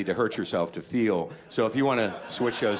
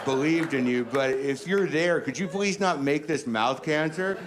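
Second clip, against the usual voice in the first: mock pleading prayer; 7 semitones higher than usual. Comic praying to God for mercy, mock pleading. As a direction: bargain with God like a desperate sinner. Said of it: "And then bargaining".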